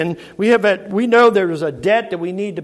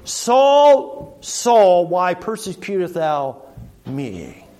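voice from heaven; much slower than usual. Acted. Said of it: "the voice, uh, came to him".

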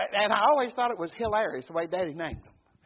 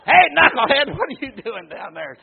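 mock call; 11 dB louder than usual. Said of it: "Mine's probably Knucklehead".

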